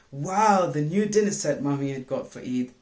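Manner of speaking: put-on a child gasping with joy at a treat; excited child. Child excited at new dinner set.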